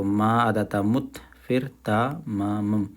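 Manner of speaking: मुत्तमं split slowly into ता, मा, मम; syllable by syllable. Shown as a demonstration. Teacher slowly splits मुत्तमं into parts for students. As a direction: break मुत्तमं into slow syllables. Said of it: "इस तरह से देखो".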